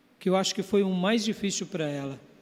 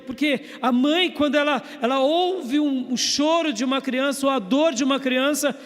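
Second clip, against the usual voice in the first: raised, impassioned pulpit voice; fervent preaching; 6 semitones higher, 4 dB louder than usual. Acted. Pastor exhorting his brothers about a mother's ear, raised fervent preaching. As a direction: drive the point home to the congregation.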